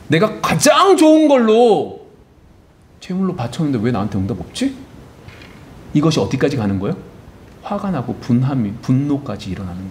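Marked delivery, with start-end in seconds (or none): 0.1-4.7 a man wounded that his best gift went unanswered; aggrieved Cain. Acted. Cain's inner complaint, acted quote.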